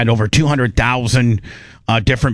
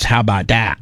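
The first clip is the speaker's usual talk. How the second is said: "How about that?" with Canadian "aboot" vowel; Canadian accent; 4 semitones lower than usual. Shown as a demonstration. Showing cohosts how Canadians say "about". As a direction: say "about" like a Canadian, rounded and long. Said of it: "But it's".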